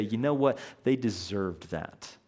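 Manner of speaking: a cold, careless shrug of a quote. Retold or imitated. Preacher mimics believers dismissing someone's hardship, careless. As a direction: toss it off like they had it coming. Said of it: "That careless".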